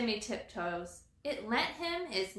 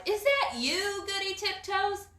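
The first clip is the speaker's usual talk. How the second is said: squirrel voice; 11 semitones higher, 4 dB louder than usual. Acted. Timmy answers from below.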